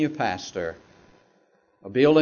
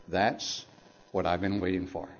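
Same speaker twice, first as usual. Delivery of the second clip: much softer, lower, barely voiced; whispered; 9 semitones lower, 11 dB quieter than usual. Pastor answers the call he longed for, in a hushed near whisper. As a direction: breathe it out, overcome with tears. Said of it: "and I whispered".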